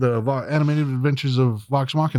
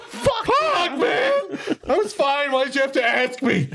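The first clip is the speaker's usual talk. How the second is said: laughing; 12 semitones higher, slower than usual. Real, not acted. Laughing after being asked about crying.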